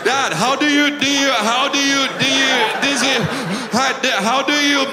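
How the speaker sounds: put-on high, loud stuck-record kid stammer; stammering toddler. Son stammers a question to his dad, high and loud. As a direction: loop the question like a flustered little boy. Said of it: "And then he's like".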